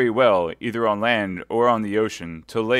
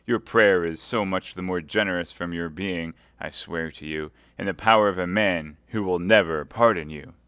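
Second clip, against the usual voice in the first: louder scornful retort; mild angry cry; 6 dB louder than usual. Acted. The Baron scorning Milady's feigned prayer. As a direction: curse her with cold contempt. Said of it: "cried the Baron".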